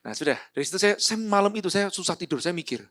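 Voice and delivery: normal talking voice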